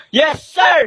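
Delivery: loud soldier reply; shouted reply. Acted. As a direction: snap back a loud yes sir. Soldiers answer officer.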